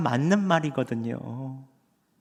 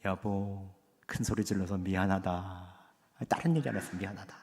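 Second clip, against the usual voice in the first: softer apology to his wife; sincere, quiet husband's apology; humble apology; 5 semitones lower, 6 dB quieter than usual. Retold or imitated. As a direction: lower yourself and say sorry gently. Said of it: "자세를 낮추며".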